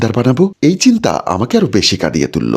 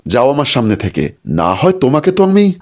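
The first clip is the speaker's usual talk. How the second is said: understated angry order to get out; 3 semitones higher than usual. Acted. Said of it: "রেগে গিয়ে বলল".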